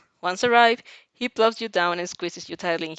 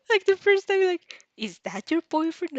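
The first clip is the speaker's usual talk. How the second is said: laughing; 9 semitones higher than usual. Retold or imitated. Reader laughing, mocking Mina.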